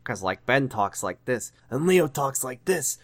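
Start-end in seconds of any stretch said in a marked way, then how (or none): 0.5-1.5 a hint of a character's voice; Ben. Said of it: "Steve's voice is just Ben and Leo's voice mixed together". 1.9-3.0 lightly voiced impression, lifted a little; a hint of a character's voice; Leo. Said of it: "Steve's voice is just Ben and Leo's voice mixed together".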